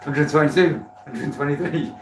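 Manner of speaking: calling numbers like an auctioneer. Pretend. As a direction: call it like an auction bid. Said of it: "do I sound like an auctioneer".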